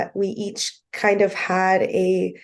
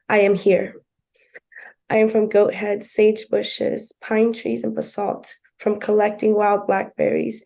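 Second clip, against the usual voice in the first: poem reading. Acted. Host reading her own poem to the listeners, solemn recitation. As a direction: give each "I am from" line its own weight.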